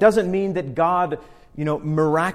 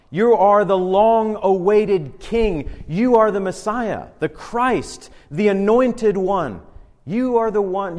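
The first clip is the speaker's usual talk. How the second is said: emphatic, bold confession; 2 semitones higher, 4 dB louder than usual. Retold or imitated. Peter declaring Jesus' identity to him, bold and emphatic. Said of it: "his answer is emphatic, it's bold, it's confident".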